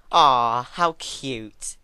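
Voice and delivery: loud mocking coo; mocking exclaim. A narrator's reading. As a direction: coo at her fear like it's adorable. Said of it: "Twilight exclaimed".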